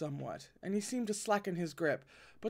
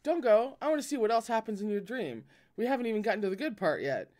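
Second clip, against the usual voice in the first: eager; 5 semitones higher, faster than usual. Acted. Eager to keep watching.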